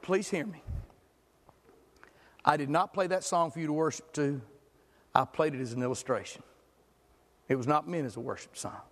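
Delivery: low, gentle explaining; sweet and polite. Retold or imitated. Pastor explaining to the upset lady, sweet and patient. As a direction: patiently soothe her. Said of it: "trying to be sweet like Johnny".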